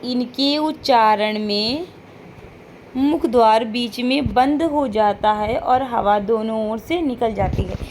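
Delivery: slow, spaced out so students can write it down; slow dictation. Shown as a demonstration. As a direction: dictate the definition word by word. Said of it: "क्या है पार्श्विक व्यंजन?".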